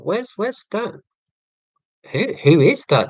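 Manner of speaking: kids' questioning, mildly put on; imitating his kids. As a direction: lightly mimic children asking after their dad. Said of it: "My kids are going".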